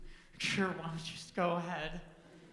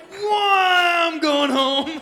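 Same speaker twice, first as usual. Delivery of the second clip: much louder, higher, exclaiming; loud mock reaction; 12 semitones higher, 17 dB louder, much slower than usual. Imagining a sensible girl fleeing, mock loud exclaim. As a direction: bail out loudly. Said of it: "the right-minded person is like".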